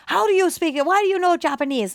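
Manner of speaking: put-on old neighbor astonished at an American child speaking Japanese, pitched high; amazed old neighbor. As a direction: sound floored that the kid speaks it.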